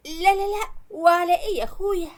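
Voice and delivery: high, quick no no no; quick protest. Acted. Mother brushing off her son's threat to leave home, high and quick. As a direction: wave it away, eager to agree.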